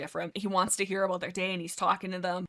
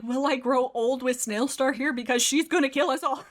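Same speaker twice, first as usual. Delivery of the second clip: high and louder, breaking into a laugh; mock worry dissolving into laughter; laughing while voicing; 5 semitones higher, 4 dB louder than usual. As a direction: joke it out with a laugh. Cat wonders about doomed future.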